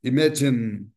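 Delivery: IMAGINE as i-MA-jin, ending on n; silent final E. Shown as a demonstration. Teacher models for students, IMAGINE with silent final E. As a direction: stop IMAGINE on the n, no added vowel. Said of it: "duas sílabas".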